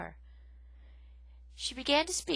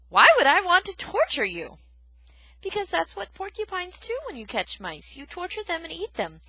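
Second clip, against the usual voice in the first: put-on loud, high gruff old porcupine; 10 semitones higher, 10 dB louder than usual. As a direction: bark the question at her. Porcupine and mouse argue.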